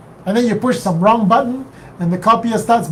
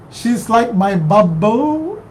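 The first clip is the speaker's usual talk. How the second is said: slow puzzled reread; 3 semitones higher, much slower than usual. Shown as a demonstration. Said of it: "What does that mean?".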